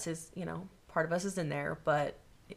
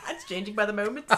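laughing while talking; 4 semitones higher, 8 dB louder than usual. Real, not acted. Laughing at accent.

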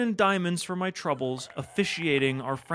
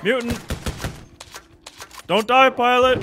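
loud, higher desperate cry; desperate shout; 6 semitones higher, 7 dB louder than usual. Real, not acted. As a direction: plead with the pilot loudly. Pilot under attack.

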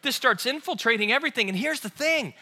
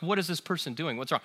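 mild mock muttering; 3 semitones lower, 7 dB quieter than usual. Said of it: "so I start talking, like".

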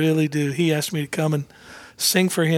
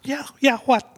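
Jack answering casually; 10 semitones higher than usual. Retold or imitated. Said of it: "He said".

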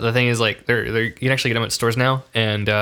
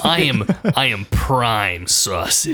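showing off; slower than usual. Pretend. Slow proud brag.

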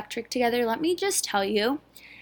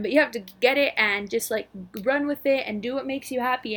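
lightly voiced preacher, a bit fast, for the podcast listeners; a hint of sermon, urging the listener on; mock preaching. Podcaster mock-preaching to her listeners, lightly. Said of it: "preaching, like".

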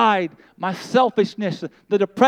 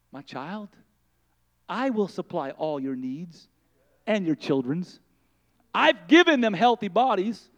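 the Lord, gentle and hushed; 2 semitones lower than usual. Acted.

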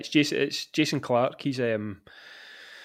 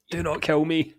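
mock plea, laughing; 6 semitones higher, 4 dB louder than usual. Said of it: "Watertight contract".

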